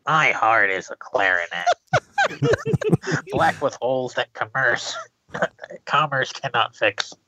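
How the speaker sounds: pinching nose. Acted. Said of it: "I'm just holding my nose".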